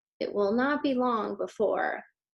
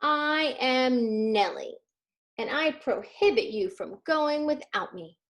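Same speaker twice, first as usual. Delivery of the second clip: put-on little girl voice; 3 semitones higher, 3 dB louder, slower than usual. Girl character voiced in story.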